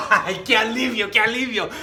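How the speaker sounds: relieved Festo. Acted. Preacher voices Festo relieved to hand Paul to Caesar. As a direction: play a governor glad to dodge the decision. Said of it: "qué está diciendo Festo aquí".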